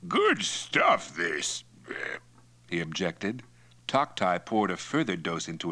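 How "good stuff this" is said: tipsy, starting high and dropping away; a trifle muzzy. A narrator's reading. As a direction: sound mildly fuddled by drink. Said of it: "looked up a trifle muzzily".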